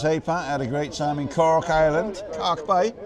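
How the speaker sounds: lightly put-on Cork accent; bad Cork accent. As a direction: read it out in a poor attempt at a Cork lilt. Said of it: "that's my worst Cork accent ever".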